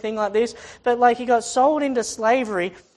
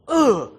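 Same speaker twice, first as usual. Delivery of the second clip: grunt of being kicked; 4 semitones higher, 6 dB louder than usual. Acted. Acting out blows Joseph takes.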